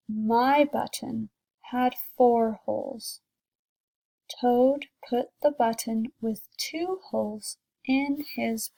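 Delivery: storybook read aloud to a class; teacher reading a picture book to kids, gentle storytelling; reading to children. A narrator's reading.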